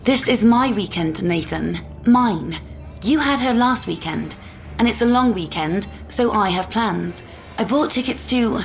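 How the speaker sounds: indignant anger. Acted. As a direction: argue firmly with the ex, short of yelling. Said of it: "She probably heard me yelling".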